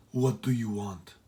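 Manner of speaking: wary woman at the door; curt matron. Acted. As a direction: question the stranger coolly. Woman at door challenges John.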